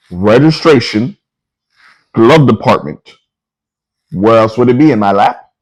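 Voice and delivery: drawn-out, mock-patient reply; slow, pointed answer. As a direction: spell it out word by word. Spelling out the obvious to cop.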